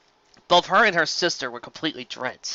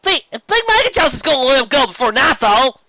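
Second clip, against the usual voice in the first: whisper; 12 semitones higher, 9 dB louder than usual. Acted. Character voice in story.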